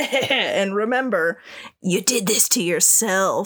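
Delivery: low cottage-witch voice. After teasing coming content, speaker delivers a warning in a Wrath cottage-witch voice. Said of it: "sounds like you're like cottage witch voice".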